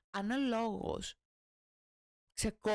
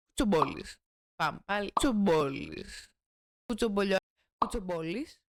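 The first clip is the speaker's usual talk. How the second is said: louder, emphatic single word; loud retakes; 2 semitones lower, 6 dB louder than usual. Acted. Retaking the punchline word, loud and emphatic. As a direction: snap the word out each take.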